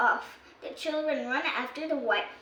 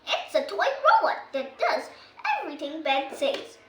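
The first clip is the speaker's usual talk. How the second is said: laughing; 2 semitones higher than usual. Acted. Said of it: "explains Holly".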